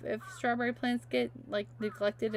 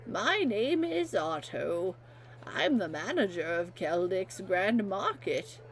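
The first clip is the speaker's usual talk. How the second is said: put-on old man voice. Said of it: "I can do an old man voice".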